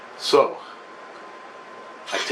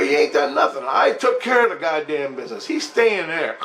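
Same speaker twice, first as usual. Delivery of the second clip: shout; 2 semitones higher than usual. Retold or imitated. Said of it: "I go".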